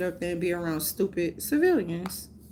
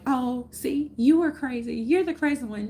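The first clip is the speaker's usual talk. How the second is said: mocking taunt; 3 semitones higher than usual. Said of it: "so they can feel like".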